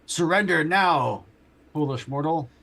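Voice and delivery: slow booming commanding threat; dark lord. Acted. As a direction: boom it down like an angry angel. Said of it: "full-on, like".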